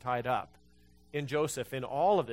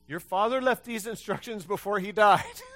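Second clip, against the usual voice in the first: higher, louder, sly sing-song plea; mock sly plea; 5 semitones higher, 7 dB louder than usual. Pastor mocking the brothers' message to Joseph, sly and sing-song. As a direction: ham up the brothers' sneaky excuse.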